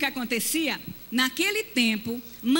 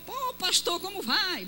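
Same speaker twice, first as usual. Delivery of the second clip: high cheerful church greeting; hearty greeting; 5 semitones higher than usual. Retold or imitated. Elder greeting the pastor, hearty high voice. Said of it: "o ancião chegou".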